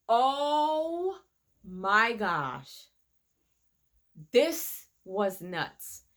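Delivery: drawn-out disbelief at the fight scene; shocked amazement. Retold or imitated. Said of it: "I was like".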